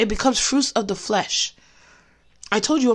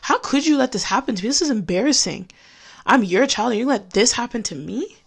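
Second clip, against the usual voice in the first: angry at God. Retold or imitated. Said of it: "I started to curse God".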